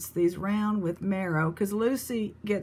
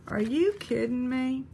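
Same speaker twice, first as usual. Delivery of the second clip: higher, thrilled disbelief; amazed; 4 semitones higher than usual. Real, not acted. Reading the card, higher in thrilled amazement. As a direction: rise up in delight.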